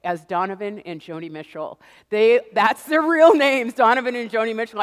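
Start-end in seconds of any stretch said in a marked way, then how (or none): 2.1-4.8 louder, stressing the names in disbelief; amused disbelief. Real, not acted. Telling the audience about neighbors, loud disbelief. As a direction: insist these are real names. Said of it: "I thought they were messing with me".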